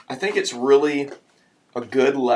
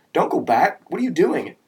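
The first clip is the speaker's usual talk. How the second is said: high, urgent protest; shouting; 7 semitones higher, 4 dB louder than usual. A narrator's reading. Friends protesting as the driver turns back, shouting. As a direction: call out in swooping high pitch. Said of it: "My friends kept shouting".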